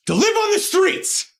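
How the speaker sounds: snarling warning; threatening yell. Acted. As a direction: spit the threat out as a sudden cry. Threatening the family with eviction.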